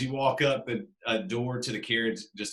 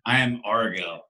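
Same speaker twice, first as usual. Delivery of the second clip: lightly gruff, lower carriage driver; a hint of rasp, pitched down and terse; gruff, raspy voice; 4 semitones lower than usual. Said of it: "he just speaks in this gruff, raspy voice".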